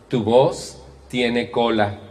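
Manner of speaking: slow, drawn-out motherly warning; mother's warning, slow. Retold or imitated. Mother slowly warning her son his voice has a sting. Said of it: "Decía mi mamá".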